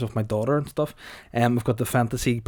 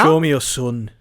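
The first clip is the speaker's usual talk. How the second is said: Tommy Shelby; 5 dB louder than usual. Acted. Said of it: "I'm Tommy Shelby".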